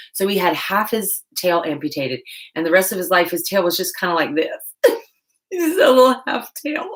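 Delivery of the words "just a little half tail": put-on high, sweet baby talk; cutesy high voice. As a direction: coo it like talking to a kitten. Cute voice for cat tail.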